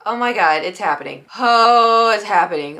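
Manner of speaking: sudden loud panic at the stomach pains; panicked realization. Retold or imitated. Friend's house, stomach pains hit, panicked realization. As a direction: blurt it out as the nausea hits. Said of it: "I was like".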